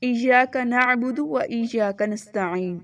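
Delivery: slow ایاک نعبد و ایاک نستعین; recitation. Shown as a demonstration. Teacher reading the fourth verse. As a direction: recite slowly. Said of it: "چوتھی آیت پڑھیں گے ہم".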